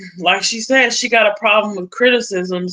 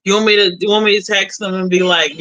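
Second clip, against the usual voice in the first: usual speaking voice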